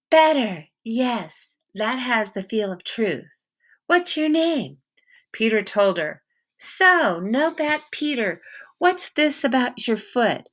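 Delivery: a suspicious woman with a hint of an accent, guarding her barn; stern wary woman. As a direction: hold your ground and interrogate him. Woman softens, asks name.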